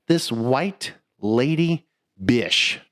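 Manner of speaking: "bish" drawn out slowly instead of the swear; bish not bitch. Shown as a demonstration. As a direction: stretch out "bish" slowly, no t sound. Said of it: "I didn't say bitch. I said bish".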